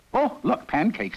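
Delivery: Emperor cries out in delight at pancakes; a bright, delighted cry; cried out. A narrator's reading. Emperor spots the pancakes and cries out happily. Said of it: "cried the Emperor".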